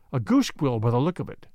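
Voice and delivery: ordinary delivery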